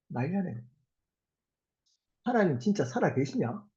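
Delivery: lightly acted scoffing; mild mocking. Scoffers jeering at a believer whose family is falling apart, mildly mocking. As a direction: taunt with mock incredulity. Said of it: "조롱합니다".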